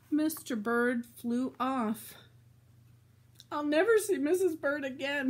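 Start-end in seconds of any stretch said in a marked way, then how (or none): 3.5-5.3 crying. Acted. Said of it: "he cried".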